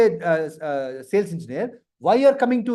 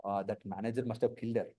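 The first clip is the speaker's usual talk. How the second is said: low murmured gossip; gossip aside; 10 semitones lower, 12 dB quieter than usual. Retold or imitated. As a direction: mutter it like office gossip. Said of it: "Lady crying".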